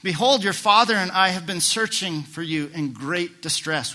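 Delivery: mother's distress. Retold or imitated. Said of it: "His mother said to him".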